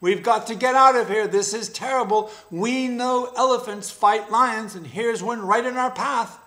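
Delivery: high, loud and fast, words tumbling out in fear; a small scared animal begging to run; panicked jackal cub. Acted. Jackal fleeing the elephant.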